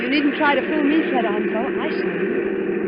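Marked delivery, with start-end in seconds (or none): 1.8-2.9 slow knowing whisper. Acted. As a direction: breathe it low and slow, accusing. Wife confronts husband knowingly.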